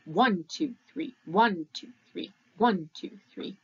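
accent each ONE of the count one, two, three; waltz count with accents. Shown as a demonstration. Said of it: "it usually goes like this".

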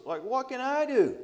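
high-pitched helpless protest; mock-distressed plea, pitched well up; upset king. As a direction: act out a king's upset, voice jumping up. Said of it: "he was upset".

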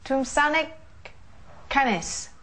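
Tumsanak Canis copied a bit uncertainly; repeating after teacher. Shown as a demonstration. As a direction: echo Tumsanak Canis back carefully. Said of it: "how do you say it".

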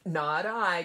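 loud quacky duck reply; quacking duck voice. A narrator's reading. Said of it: "quacked the duck".

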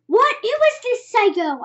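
high, loud outraged question; screaming. A narrator's reading. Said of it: "I screamed".

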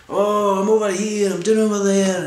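high, loud squawky puppet voice; mocking puppet-show squawk; Punch and Judy voice. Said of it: "adult Punch and Judy".

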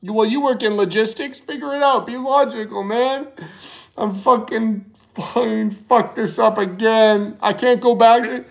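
fake panic. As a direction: pretend to freak out after crashing the truck. Faking a panicked crash call.

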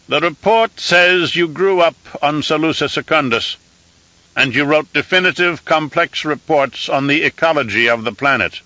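high, thin voice of an aged emperor; an old ruler used to giving firm commands; reedy scratchy old voice. Acted. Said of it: "in a reedy, scratchy voice".

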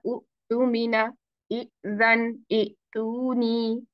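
उ तू मीना, इ जन, इ तू नी with short, cut-off first vowels; wrong beginner readings. Shown as a demonstration. Teacher shows beginners' mistakes, wrong short-vowel pronunciation. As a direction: slowly break उ and इ off from the rest of each word. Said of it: "लेकिन ये गलत तरीका है".

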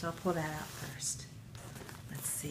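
soft whisper to yourself; breathy whispered aside. Real, not acted. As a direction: hush as if not to spoil the surprise. Hushed while reaching into package.

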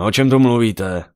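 puzzled demand to know; confused. A narrator's reading. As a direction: ask loudly, completely lost. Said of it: "zeptal se zmateně Malkram".

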